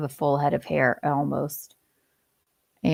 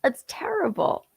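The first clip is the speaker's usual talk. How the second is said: breathy whispered horror; 9 semitones higher, 5 dB quieter than usual. Real, not acted. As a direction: whisper it in shock. Mock horror at news.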